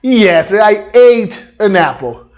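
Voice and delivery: slow, careful English; slow correct version. Shown as a demonstration. Teacher answering his own question, modelling slowly. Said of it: "O correto é qual?".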